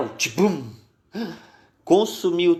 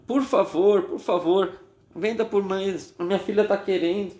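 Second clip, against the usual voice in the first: higher voice begging please; pleading mother; 5 semitones higher than usual. Acted. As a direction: beg the seller for your daughter's sake. Mother begs the seller. (mãe implorando, voz mais aguda)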